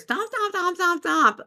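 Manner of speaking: high, rapid-fire stomping chant; imitated stomping. Prankster keeps climbing the stairs, high chanted stomping. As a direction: mimic repeated footsteps on stairs. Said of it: "kept going up and down".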